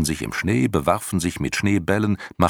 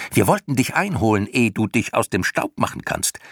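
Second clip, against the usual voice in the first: high, excited creature voice; mild screeching; 7 semitones higher than usual. A narrator's reading. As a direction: press on as a screechy clown creature. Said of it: "kreischten die Schlamuffen". (hoch und leicht kreischend)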